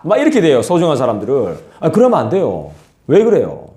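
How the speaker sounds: normal talking voice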